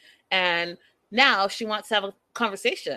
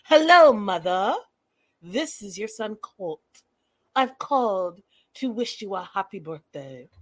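Norman Bates voice. Retold or imitated. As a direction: lightly mimic a creepy devoted son. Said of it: "Norman Bates kind of talking".

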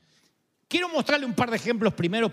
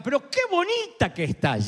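sweet compliment; 4 semitones higher than usual. Retold or imitated. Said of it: "a que te digan".

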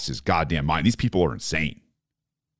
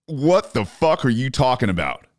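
outraged; 5 semitones higher than usual. Real, not acted. Reacting to senator's nuke talk, outraged shout. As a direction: demand what he's talking about, furious.

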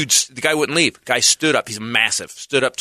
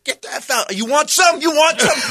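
mock challenge; 13 semitones higher than usual. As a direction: puff up and taunt them. Comic storming offstage, acted.

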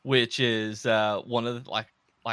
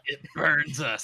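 hissing creature rasp; a light Gollum impression. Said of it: "It's Gollum".

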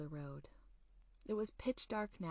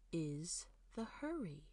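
bothered, impatient stranger; 4 dB quieter than usual. Acted. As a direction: let the impatience drag the words. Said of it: "he sounded bothered and impatient".

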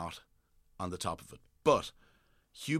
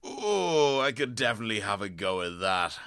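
mock eager predator; 6 dB louder than usual. Imagined animal eyeing crocodile.

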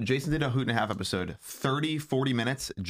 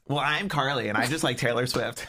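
lightly mocking impression; understated send-up of a friend; Carly. Co-host asked to do a friend, lightly mocking. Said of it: "Okay, do mine".

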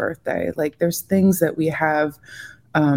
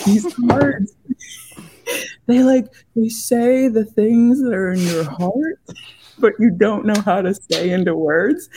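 retold Boston guy; 6 semitones higher, 3 dB louder than usual. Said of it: "I'm not gonna do an accent".

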